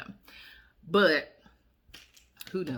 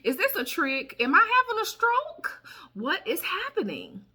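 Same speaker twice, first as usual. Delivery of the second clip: mock panic; 12 semitones higher, 4 dB louder than usual. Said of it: "I was like".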